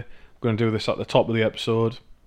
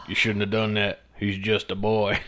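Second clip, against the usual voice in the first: Cartman impression. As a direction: scold like Cartman. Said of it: "fucking Cartman from South Park".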